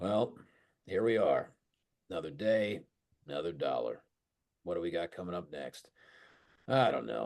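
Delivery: sounding uninterested. Demonstrating a delivery that sounds uninterested in its own topic: sounding uninterested. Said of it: "sound like you have no interest in what you're talking about".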